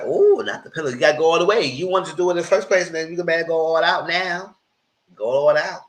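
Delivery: high, loud egging-on. Real, not acted. Host mock-urging Drew to finish it, high loud egging-on. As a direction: hype him to go all the way.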